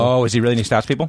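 talking through a mouthful of food; mouth full. Real, not acted. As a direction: speak while chewing. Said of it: "talking with your mouth full".

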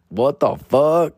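slow, drawn-out what the fuck; stunned disbelief. Retold or imitated. Reacting to Fluffy's text, slow stunned disbelief. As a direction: let it hang in disbelief.

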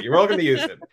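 chuckling through the words; laughing. Real, not acted. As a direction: laugh it out while offering.

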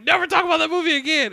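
a hammed-up threat, fast and loud; mock stern warning. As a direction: scold in jest, quickly. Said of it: "But he's like".

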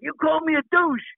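high, indignant mock accusation; hammed-up wounded tone; accusing. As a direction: play the offended athlete calling him out, voice jumping up. Peterson confronting him.

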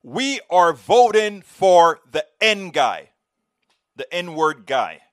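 loud, slow, drawn-out shout; husband shouting back his vote, slow and loud; retold shout. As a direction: boom the answer back slowly. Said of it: "And he shouts out".

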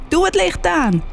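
high-pitched, panicked yell; urgent shout. A narrator's reading. Chris jumps up as hair burns, shouting high. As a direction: shout the order across the room. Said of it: "schreeuwde Chris terwijl hij opstond".

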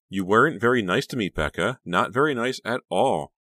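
put-on insistent, childish complaint; pouting reproach. A narrator's reading. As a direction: chide a friend with a pout. Honey pouting at silent Becca.

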